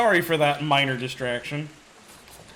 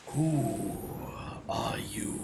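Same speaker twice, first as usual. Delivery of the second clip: slow, distant dragon voice; an ancient voice inside your head; 3 semitones lower, 8 dB quieter, much slower than usual. Acted. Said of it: "you hear in your head".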